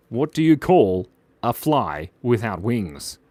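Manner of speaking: slow, measured retelling of a riddle; deliberate repeat. Real, not acted. Streamer repeating an important joke for a viewer, slow and deliberate. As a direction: spell the riddle out slowly and seriously.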